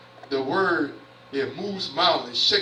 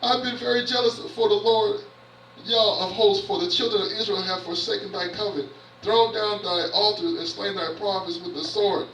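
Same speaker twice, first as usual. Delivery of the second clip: higher, complaining prophet pleading his case; whining Elijah; 4 semitones higher than usual. Retold or imitated. Preacher voices Elijah complaining to God, mild higher whine. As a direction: read it like a self-pitying whine. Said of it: "he was whining".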